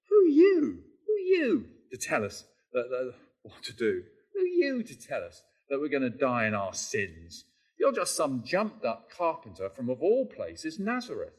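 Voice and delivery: mock the upstart carpenter from Nazareth; hammed-up sarcastic sneer at a jumped-up carpenter. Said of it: "this is a sneering, sarcastic question".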